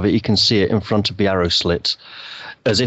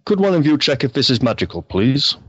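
solemn; 3 semitones higher than usual. Acted. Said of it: "he will solemnly ask".

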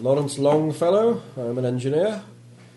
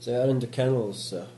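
put-on Polish accent.

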